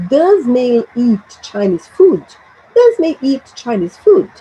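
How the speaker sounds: "food" tilted up as a question; rising intonation. Shown as a demonstration. Teacher asking students to repeat after her, lifting "food". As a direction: model the question with a lift on "food". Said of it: "the intonation at the end rises".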